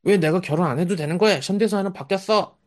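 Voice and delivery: put-on high-pitched childish protest to mom; put-on petulant little-kid voice; whining baby. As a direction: imitate a kid arguing back at a parent. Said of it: "이런 게 얘기예요, 이게 얘기".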